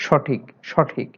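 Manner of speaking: slow সঠিক, সঠিক with open ɔ, "shɔthik"; unchanged open vowel. Shown as a demonstration. Teacher repeating the example for students, slow open-vowel সঠিক. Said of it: "অবিকৃত থাকে".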